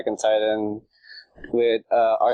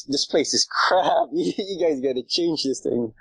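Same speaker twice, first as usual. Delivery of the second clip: imitated complaint; 4 semitones higher, slower than usual. Retelling visitors' complaints about subreddit.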